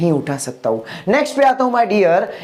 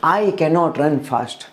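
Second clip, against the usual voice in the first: slow, low model sentence; 5 semitones lower, much slower than usual. Shown as a demonstration. Teacher repeats the example slowly for students. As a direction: say it slowly and lower, like a closing example. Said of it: "तो मैं क्या बोलूंगा?".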